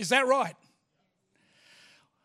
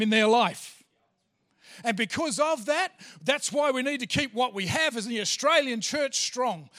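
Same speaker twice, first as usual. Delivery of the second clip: preaching with growing force, louder toward the end; rising preaching; 3 dB louder than usual. Acted. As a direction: build the appeal until it fills the room. Pastor building to a passionate appeal.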